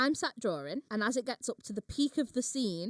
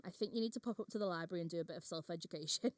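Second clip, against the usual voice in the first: calm, quickly delivered put-down; calm retort; 2 semitones lower, 5 dB quieter, faster than usual. Retold or imitated. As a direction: deliver the retort softly and evenly. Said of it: "So I very calmly told him".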